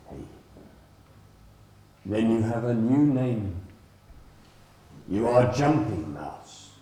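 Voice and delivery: a hint of a low, steady wise frog; calm frog. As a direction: speak as the old guide setting a choice. Storyteller voices the frog.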